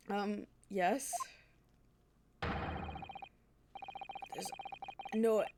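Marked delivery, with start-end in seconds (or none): 2.4-5.4 Scottish governor, dismissive. Acted. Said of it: "this man is Scottish".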